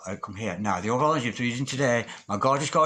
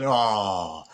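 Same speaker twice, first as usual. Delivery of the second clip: normal talking voice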